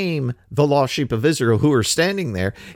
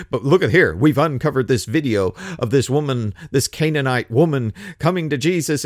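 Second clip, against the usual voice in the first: mock news report. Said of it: "Jesus Christ, this just in".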